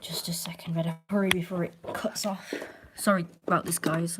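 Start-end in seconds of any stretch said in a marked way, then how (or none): 0.0-2.5 whispery, hurried aside; half-whispered muttering while busy; hushed aside. Real, not acted. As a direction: whisper it to yourself. Hurrying before battery cuts off.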